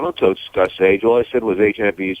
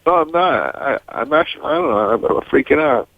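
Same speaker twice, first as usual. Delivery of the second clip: mock crying; 4 semitones higher than usual. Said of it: "why are you crying".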